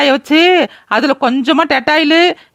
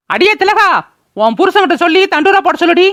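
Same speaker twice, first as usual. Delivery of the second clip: calling out; 3 semitones higher than usual. Acted. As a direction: summon the neighbour, commanding. Calling neighbour loudly.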